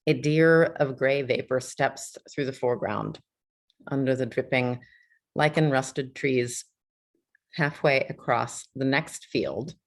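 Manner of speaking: measured poetry reading with spaced pauses; poem reading. Acted. Host reads a November poem to a gathered audience, measured poem reading. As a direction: read it line by line, letting each phrase settle.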